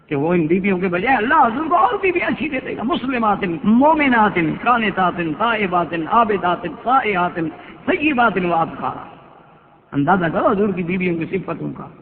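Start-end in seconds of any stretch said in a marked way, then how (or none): 2.8-9.0 slow, measured chant of the Arabic verse; Quran recitation. Acted. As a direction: recite each word slowly like tilawat. (آہستہ تلاوت کا انداز)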